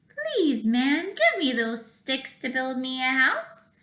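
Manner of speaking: a hint of a small pig asking nicely; little pig voice.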